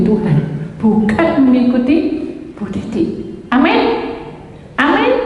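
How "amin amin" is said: high rising amen to the crowd; preacher's amen call. Acted. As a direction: call it out for a response. Preacher calls amen to congregation. (seruan amin yang tinggi dan naik)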